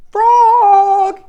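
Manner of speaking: loud high shout across the river. A narrator's reading. Toad shouting to Frog on the island, loud shout. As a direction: call out far over the water. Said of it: "he shouted".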